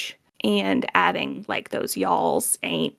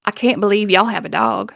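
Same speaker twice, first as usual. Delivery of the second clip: deep Southern accent, louder, set back in the mouth; heavy Southern accent; 5 dB louder than usual. Shown as a demonstration. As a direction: lay the Southern accent on thick. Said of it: "really deep in it back there".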